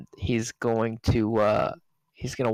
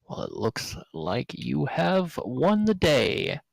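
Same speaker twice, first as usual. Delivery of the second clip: gracious knight; 3 semitones higher, slower than usual. Acted. GM voices knight conceding to player.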